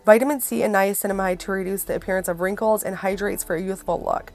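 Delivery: ordinary delivery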